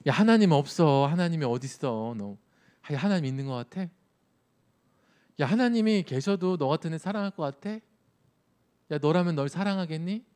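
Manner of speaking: a preacher's mildly voiced Satan, pushing doubt; taunting Satan. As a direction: goad the listener like a scornful devil. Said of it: "사탄은 어떻게 우리를 왜곡시키는지 아세요? 우리 귀에 속삭이는지".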